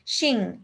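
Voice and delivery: শিং ending in a slow, clear English ng; teacher drawing out শিং so the ng rings; ng sound like English ing. Shown as a demonstration. Teacher showing the child the ng sound, slowly. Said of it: "আইএনজির উচ্চারণের মতন".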